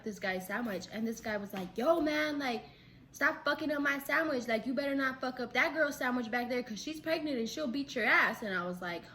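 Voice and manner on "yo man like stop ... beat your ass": raised voice, scolding; imitating annoyed customer. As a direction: play a fired-up customer telling off staff. Annoyed customer at Subway, acted.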